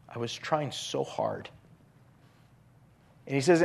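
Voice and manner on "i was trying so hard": softer, sinking at the end; a quiet plea, almost to yourself; softly worn out and earnest; hushed pleading. Retold or imitated. Same words, now hushed in quote.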